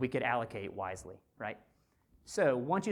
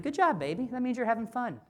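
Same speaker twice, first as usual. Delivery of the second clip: high, louder bright cheer over a boo-boo; cheering mom; 9 semitones higher, 4 dB louder than usual. Retold or imitated. Mother cheering her hurt toddler, high and loud. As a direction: celebrate the fall like a cheerleader mom. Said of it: "I'm like".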